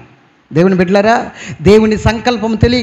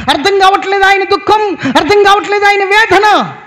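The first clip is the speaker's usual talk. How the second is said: higher, rising sermon cry; impassioned preaching; 7 semitones higher than usual. Acted. Pastor urging the congregation about God's grief, impassioned preaching.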